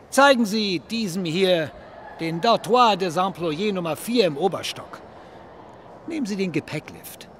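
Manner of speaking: laut, langsam und herablassend befehlen; barscher Befehl. Acted. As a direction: jedes Wort als Anweisung betonen. Director orders bellboy, dismissive. (der Direktor befiehlt dem Pagen laut und langsam)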